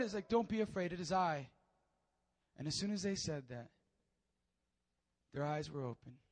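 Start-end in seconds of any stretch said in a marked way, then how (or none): 0.3-1.5 calm them gently; gentle reassurance. Acted. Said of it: "he has to say it again".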